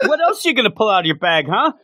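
high, fast and laughing; teasing quote, laughing. Retold or imitated. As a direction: tease him with a laugh, quick and high. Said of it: "she says".

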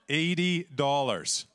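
slow, laughing repeat; amused at the tiny prize. Real, not acted. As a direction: laugh through the small sum.

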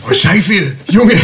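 high half-laughed curse; laughing shock. Real, not acted. Player reacting to the hearse theft, laughing.

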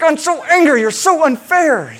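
put-on high, loud childish protest through a laugh; dad laughing as he mimics his daughter's tantrum; mock angry child. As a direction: laugh while playing the furious toddler. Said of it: "She's like".

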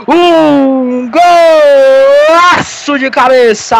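slow, emphatic goal narration; explosive goal commentary. Real, not acted. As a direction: hammer home the score. Goal call continues. (narração de gol enfática)

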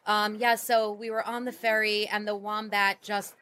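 ordinary delivery

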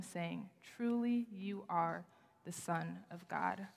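measured, storytelling Bible read; scripture reading. Acted. Preacher reading the Peter story to the congregation, measured scripture read. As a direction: read the passage with weight and care.

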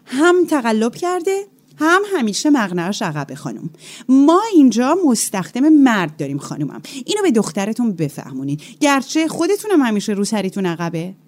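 lightly voiced stern teacher complaining to the mother; mildly mocking the spiteful teacher; scolding teacher. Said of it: "به مامانم گفته بود".

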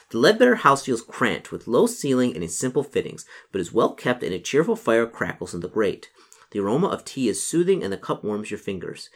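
gamebook narrator setting the scene; story narration. A narrator's reading. Narrator describing who answers the door, story narration. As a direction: read it out with measured storyteller phrasing.

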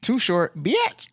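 mock sassy jab. Joking mock insult.

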